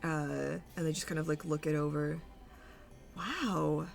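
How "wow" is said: preen with swooping, theatrical pitch; theatrical villain Mauve. Acted. Mauve gloats to the troupe after their performance, theatrical swoops. Game master voices Mauve.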